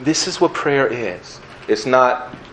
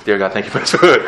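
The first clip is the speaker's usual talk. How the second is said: sneaky napkin prayer; much faster than usual. Pretend. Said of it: "The napkin prayer".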